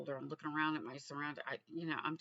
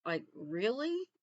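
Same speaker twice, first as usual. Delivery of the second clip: amazed relief; 7 semitones higher, 5 dB louder, slower than usual. Retold or imitated. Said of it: "And I'm like".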